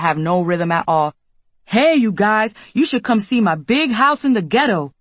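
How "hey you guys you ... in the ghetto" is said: fake deep voice. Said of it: "with a fake deep voice".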